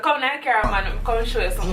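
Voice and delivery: easy Jamaican invitation, lightly acted; authentic Jamaican phrasing. Shown as a demonstration. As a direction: say it as a Jamaican local would. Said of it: "He probably said".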